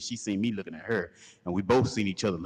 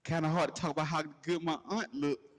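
taunting; 8 semitones higher than usual. Retold or imitated. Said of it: "he's talking about some".

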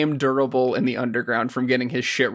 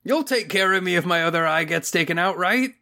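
mock plea; 4 semitones higher than usual. Mocking Nambu's plea.

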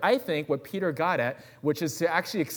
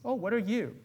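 high curious question; 7 semitones higher than usual. Acted. Stranger asking the praying man, high voice. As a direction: ask it gently, pitched up. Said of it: "the person comes up and says".

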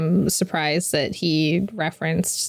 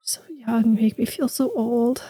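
mock exasperated whisper; 4 semitones higher than usual. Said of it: "I'm just like".

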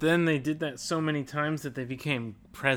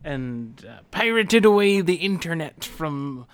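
pirate voice. Pretend. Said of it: "This is a great pirate voice".

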